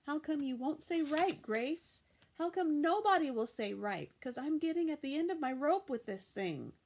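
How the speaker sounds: put-on loud, high, fed-up child; shaking her friend and demanding, exasperated; frustrated. A narrator's reading. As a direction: demand an answer, at the end of her rope.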